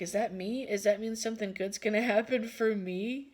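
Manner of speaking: mildly hopeful questions, lifting at the end; brief excitement. Retold or imitated. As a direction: imitate a small flicker of hope. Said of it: "millisecond of excitement".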